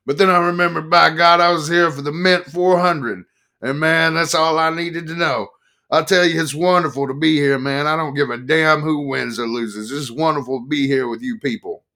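loud, high, rough-edged biker telling his tale; rowdy biker. Acted. Harley-shirt biker telling the press crowd his trip, loud and high. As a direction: play the boozy biker bragging to the crowd.

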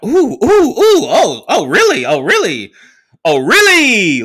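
high, loud squealing ooh ooh, oh really; overexcited girl fawning over him; gushing girl. Retold or imitated. Girl excited he's from New York.

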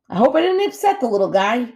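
high, loud otter voice; otter, apologetic. A narrator's reading. Otter worried she upset the gosling, apologetic.

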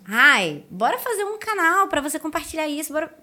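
lightly acted pushy coaxing; imitated pestering. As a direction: mimic someone badgering you to say yes. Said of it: "ele começou a me pentelhar".

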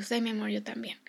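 soft motherly reply; hushed and gentle; tender agreement. Retold or imitated. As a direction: agree quietly, comforting a child. Voices comforting her daughter.

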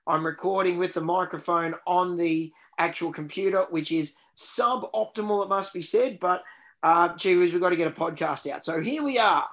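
tinny built-in computer mic; like speaking into a tin can; tin can sound. Real, not acted. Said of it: "sounding like I'm in a tin can".

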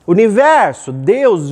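loud mock invocation; emphatic, imploring summons; calling out to heaven. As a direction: call up to the universe. Acted plea calling to the universe.

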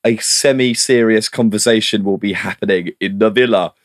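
terrible Newcastle accent. Shown as a demonstration. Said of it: "I thought that was a terrible accent".

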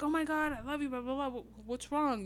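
high-pitched, quick lover's fussing; gushing mock concern. Acts out the lover's panicked fussing.

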